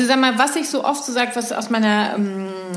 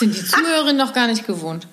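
laughing. Real, not acted. Teasing friend, both laughing.

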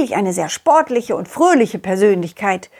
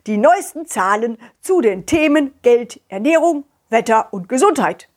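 radio news read. Acted. Rooster reads radio news.

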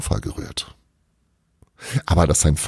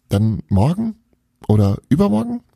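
pleading; 10 semitones higher than usual. A narrator's reading. Belana pleads as Bruno leaves.

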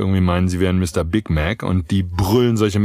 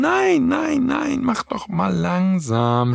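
much higher "Nein, nein", then slow it down; playful no-no; 11 semitones higher, slower than usual. Acted. Coach tells impatient listener to slow down, playful high then slow. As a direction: gently rein in an eager listener. Answers own question, slowing listener.

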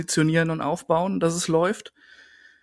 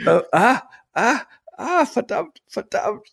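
trailing off; 9 semitones higher than usual. Real, not acted. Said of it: "habe ich jetzt vergessen".

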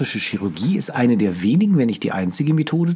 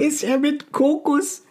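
mocking; 12 semitones higher, slower than usual. Real, not acted. Teasing mock question.

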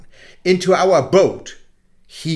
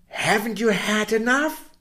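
a hint of a gentle old moon, higher; lightly voiced moon; 7 semitones higher than usual. Good old moon asking the boy, lightly voiced. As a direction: mildly scold the boy as the kind moon. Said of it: "said the good old moon".

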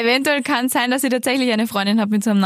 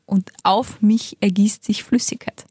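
whispering; slower than usual. Acted. Dramatic story climax.

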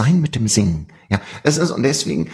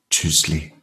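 Swiss German goodbye; 6 semitones lower than usual. Shown as a demonstration. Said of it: "lassen wir die Stille quasi auf uns wirken".

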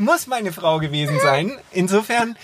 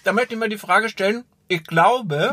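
talking with a mouthful of cookie; chewing while talking. Real, not acted. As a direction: speak round a bite of biscuit. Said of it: "ich esse gerade einen Keks".

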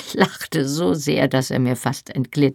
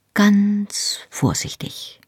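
whispered, slow, higher, fighting giggles; helpless giggling; 6 semitones higher, much slower than usual. A narrator's reading. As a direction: barely get it out through helpless giggles. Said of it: "erwiderte ich hilflos kichernd". (hilflos kichernd geflüstert)

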